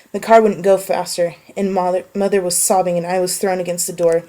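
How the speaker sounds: a tense passage read from a book; story reading. Acted. Story narration continues.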